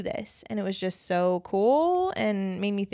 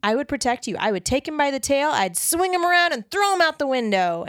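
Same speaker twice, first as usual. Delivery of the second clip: playful dad promise. Retold or imitated. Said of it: "he was just like".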